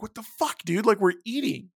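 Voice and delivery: high, disbelieving what-the-fuck; incredulous outburst. Retold or imitated. Retelling her cousin asking for a photo, high incredulous.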